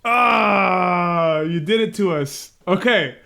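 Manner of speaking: fighting tears with a mock complaint; choked up. Real, not acted. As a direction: overcome and trying to recover. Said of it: "I didn't think I was gonna get emotional".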